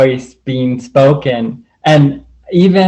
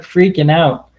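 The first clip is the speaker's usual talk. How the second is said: ordinary talk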